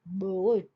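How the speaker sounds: बोट gliding from o to a; diphthong demo. Shown as a demonstration. Teacher showing diphthong glide to class, slow. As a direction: let the vowel slide in बोट. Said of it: "शुरू हुआ ओ से, खत्म हुआ अ पे".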